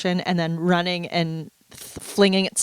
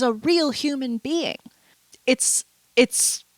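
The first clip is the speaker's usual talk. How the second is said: whisper; 4 semitones higher, slower than usual. Real, not acted. Whispered emphasis.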